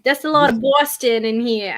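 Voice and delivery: amateur Boston accent, r's dropped; Boston accent attempt. Shown as a demonstration. Co-host trying out a Boston accent he says he can't do, Boston accent attempt. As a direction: have a shaky go at a Boston accent. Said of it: "try to do a Boston accent".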